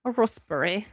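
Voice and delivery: "A raspberry" in a mock British accent. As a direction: try out a British "raspberry" with a broad first vowel. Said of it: "how the Brits say raspberry".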